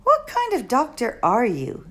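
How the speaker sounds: lightly voiced exasperated girl; a hint of girlish impatience; Flora. Girl exasperated at the old doctor, mild.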